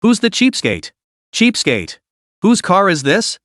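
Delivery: bellowing. A narrator's reading. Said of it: "bellowing at the top of her lungs".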